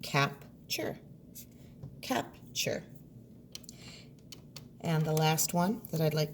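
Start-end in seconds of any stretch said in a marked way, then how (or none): 0.0-1.0 "Capture" whispered softly; a hushed "Capture". Shown as a demonstration. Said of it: "Leave chur as a chunk". 2.0-2.8 "Capture" whispered and higher; a hushed, higher "Capture". Shown as a demonstration. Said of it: "Leave chur as a chunk".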